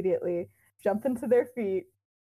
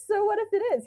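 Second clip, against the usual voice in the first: defiant retort; 11 semitones higher, 3 dB louder, much faster than usual. Retold or imitated. Lily's defiant retort, high.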